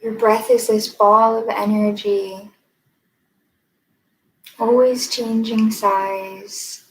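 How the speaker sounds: measured meditation guide, long pauses between phrases; guided meditation. Acted. Meditation teacher leading listeners to notice their breath, unhurried guided meditation. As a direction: guide them gently inward, leaving space after each phrase.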